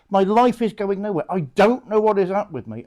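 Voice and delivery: a troubled soul pleading, voice lifted; distressed penitent. Acted. Penitent confessing to a priest in a little private place, mildly distressed.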